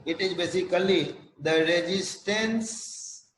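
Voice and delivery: slow, spaced-out definition with long pauses; slow dictation. Real, not acted. Lecturer giving students the definition of tone, slow dictation. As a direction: dictate it word by word, leaving time to write.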